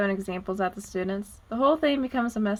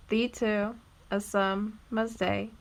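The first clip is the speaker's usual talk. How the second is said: "thee to / a sum / mer's day", slowly, foot by foot; measured pauses splitting "thee to a summer's day" into feet; scanned in iambs; slower than usual. Shown as a demonstration. Teacher continuing the scansion, "thee to a summer's day" in slow separate feet. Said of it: "while the I is stressed".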